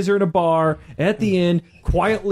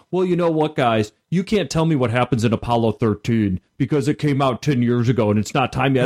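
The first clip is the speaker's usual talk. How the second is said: snooty, preachy imitation of a fan; mocking whiny voice; 5 semitones lower than usual. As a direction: sneer it like a smug purist. Mocking anti-spoiler people.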